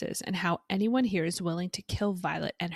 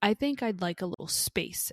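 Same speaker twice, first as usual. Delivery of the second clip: fuming; 5 dB louder than usual. Retold or imitated. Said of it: "Violet, fuming".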